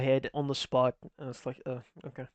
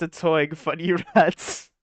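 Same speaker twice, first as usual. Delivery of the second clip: laughing; 5 dB louder than usual. Shown as a demonstration. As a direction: drag it out while cracking up. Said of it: "He said, "Ratatouille, funny rat".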